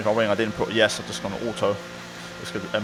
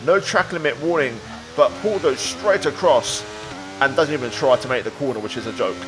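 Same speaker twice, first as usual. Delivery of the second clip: motorsport commentator. A narrator's reading. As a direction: lively race commentary voiceover. Race narration over gameplay.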